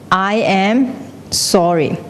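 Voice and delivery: slow echo, falling at the end; echo shouting back. Acted. The world answers the apology, slow echo. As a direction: hand it back slowly and evenly. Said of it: "it will shout back".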